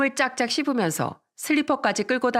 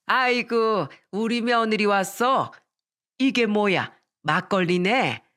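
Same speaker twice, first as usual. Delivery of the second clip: mildly delighted mother-in-law; a touch of joyful welcome, unhurried; glad exclamation; slower than usual. Acted. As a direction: exclaim happily, drawing out the words. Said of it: "기쁜 목소리로 소리치며 말씀하셨어요".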